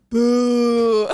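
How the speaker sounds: long, loud drawn-out boo; mock booing. Podcaster imitating commenters on her fashion outfit posts, mock booing. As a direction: boo like a jeering crowd. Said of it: "people are like".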